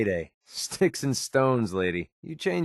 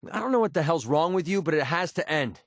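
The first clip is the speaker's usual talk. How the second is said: raised pitch, frustrated confrontation; fed-up anger; 4 semitones higher than usual. Acted. Telling a partner this has to end, fed up. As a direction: confront them, pitched up and exasperated.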